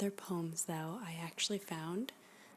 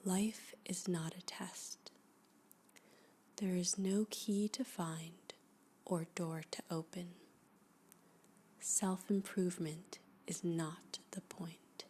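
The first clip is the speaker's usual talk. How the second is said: hushed poetry reading. Acted. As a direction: read each line like a guided meditation, letting it settle. Reads a poem aloud, hushed and slow.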